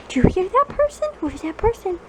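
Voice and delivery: high, quick, sing-song question; excited pet talk. Real, not acted. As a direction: perk the dog up.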